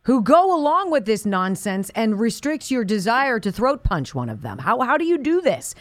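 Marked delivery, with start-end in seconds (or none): 4.8-5.7 rushed words breaking into a laugh; laughing mid-question. Real, not acted. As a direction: laugh through the question as it tumbles out.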